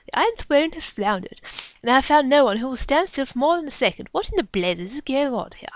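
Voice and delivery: haughty lady official, loud opening challenge; indignant officer with a put-on accent; lady's put-on accent. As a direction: demand answers in an affected accent. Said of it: "I suddenly did that accent for that lady".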